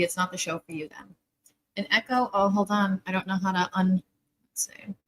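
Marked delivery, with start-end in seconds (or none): 3.1-4.0 talking with gum in mouth; chewing gum. Real, not acted. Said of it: "I just put a new piece of gum in my mouth". 4.5-4.9 soft whisper to herself. Real, not acted. Muttered while fixing settings.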